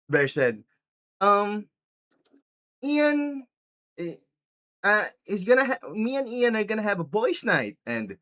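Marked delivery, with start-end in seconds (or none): 1.2-7.8 mock hesitant boyfriend. Acted boyfriend hesitantly breaking news.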